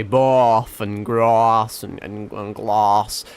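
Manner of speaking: slow Norfolk "bath", "grass" and "glass", all with a long a and a rolled-in r, like "barth", "grarss", "glarss"; Norfolk farm accent. Shown as a demonstration. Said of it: "but they say".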